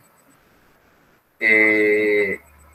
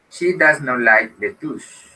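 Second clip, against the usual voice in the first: slow model sentence; 3 semitones higher, slower than usual. Shown as a demonstration.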